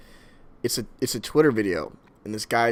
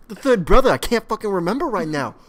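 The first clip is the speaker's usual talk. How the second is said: high, loud hammed-up command; mock attack order; 7 semitones higher, 6 dB louder than usual. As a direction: sic your brother on him. Acted star orders brothers to attack.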